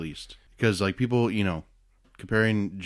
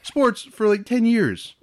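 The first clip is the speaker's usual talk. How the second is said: sarcastic; 13 semitones higher, slower than usual. Retold or imitated. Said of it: "It's like".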